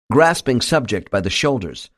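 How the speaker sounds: ordinary delivery, nothing marked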